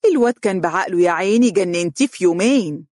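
quick, lively teasing; amused. A narrator's reading. Mother joking the girl drove her son crazy, amused. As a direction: tease her with amused mock pity. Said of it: "ضحكت أم فارس".

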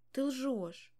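high, loud accusing cry; shout. A narrator's reading. Daughter yelling at her father that he lies. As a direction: hurl the accusation. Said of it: "закричала я".

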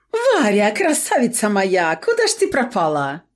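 high, cracking, fake-happy bleating; sleazy shopkeeper faking delight; fake joyful bleat. A narrator's reading. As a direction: gush with false joy, voice breaking. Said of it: "Ломким от якобы счастья неземного голосом заблеял".

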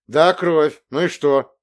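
loud defiant admission; defiant outburst. Acted. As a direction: throw it back at her. Boy defiantly admits the blood.

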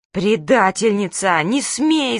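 slow, loud yell of betrayal. Acted. Manka yells at her friend for telling mum. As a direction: bellow it at the traitor. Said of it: "завопила Манька".

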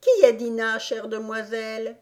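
questioning blackbird. A narrator's reading. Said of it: "questionna le merle".

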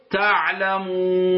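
تعلمون with the waw held four counts; تعلمون stretched to a middle length on the waw; تعلمون with a four-beat waw. Shown as a demonstration. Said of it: "هذه أربع حركات".

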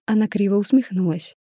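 usual speaking voice

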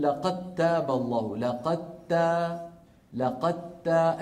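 لقد تاب said slowly, the د merged into the ت; slow recitation showing the merge; slow idgham demo. Shown as a demonstration. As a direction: draw out لقد تا so the د vanishes into a doubled ت. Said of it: "مثلًا بقول".

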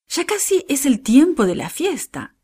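high, lively smiling voice. A narrator's reading. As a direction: say it with a cheerful smile, lifted in pitch. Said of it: "dijo ella sonriendo".

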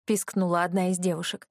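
ordinary delivery, nothing marked

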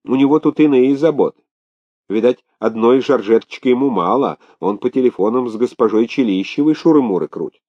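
lively, knowing tattle; gossipy maid. Acted. Maid telling the governor about a man's affairs, gossipy. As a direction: spill the scandal with relish.

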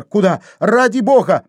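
high anxious cry; frightened. A narrator's reading. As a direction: plead in alarm. Sonya frightened at the wound.

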